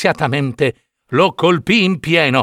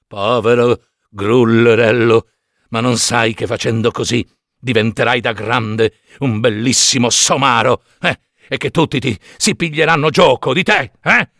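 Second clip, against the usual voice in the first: talking cricket; 3 semitones lower than usual. Acted. Cricket voice, ends in shout.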